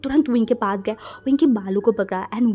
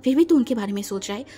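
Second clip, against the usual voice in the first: hurt anger. Acted. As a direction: lash out because you feel unvalued. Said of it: "गुस्से में wing की तरफ देखा".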